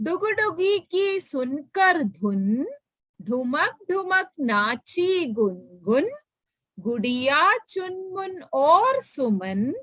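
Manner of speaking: put-on very slow, sing-song recital of a children's poem; reading a rhyme. Teacher reciting a Hindi poem to her online class, slow and sing-song. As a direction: read each word slowly for young children to follow.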